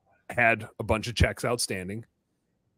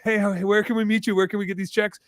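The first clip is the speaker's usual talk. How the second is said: pushy callers; 7 semitones higher than usual. Retold or imitated. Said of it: "trying to be, you know, like".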